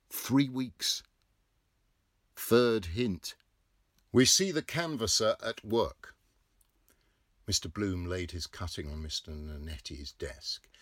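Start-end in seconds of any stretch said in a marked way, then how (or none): 0.1-6.2 loud, raised sardonic remark; wry mock. Bloom sneers at the canvasser inwardly. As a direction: needle him with irony.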